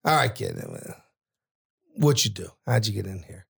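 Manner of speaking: low-pitched New York guy; unhurried New York accent, pitched low; heavy New York accent. Retold or imitated. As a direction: imitate a New Yorker, voice dropped. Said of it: "heavy New York accent".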